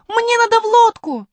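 put-on high loud urgent girl; urgent shout. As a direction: call out urgently. Alice calls urgently. (срочный крик)

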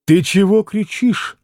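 brusque, needling question; understated insolence; rude retort. Acted. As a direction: snub the shouter rudely. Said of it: "с какой-то непонятной даже невежливостью".

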